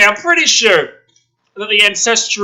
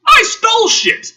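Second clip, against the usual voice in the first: mock excited confession; 3 dB louder than usual. Mock-reading the character's line.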